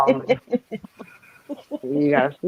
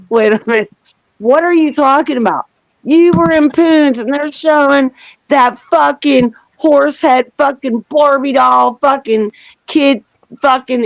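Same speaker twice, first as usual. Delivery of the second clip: raised-pitch retold rant; mock-outraged, pitched up; flipping out; 6 semitones higher than usual. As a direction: imitate someone working up into an indignant tirade. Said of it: "he's flipping out on me".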